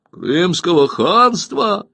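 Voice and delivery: drawn-out, slow shocked exclamation; astonished outcry. A narrator's reading. Evtukh learning he is in Crimea, crying out slowly in shock. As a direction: stretch it out in disbelief. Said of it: "вскрикнул Евтух".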